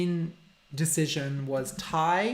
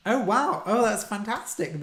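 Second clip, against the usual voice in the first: surprised; 5 semitones higher, 3 dB louder than usual. Real, not acted. Reacting to viewer news.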